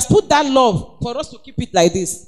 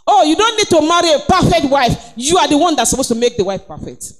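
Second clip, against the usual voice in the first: preaching shout; 2 semitones higher than usual. Real, not acted. Preacher exhorting the men.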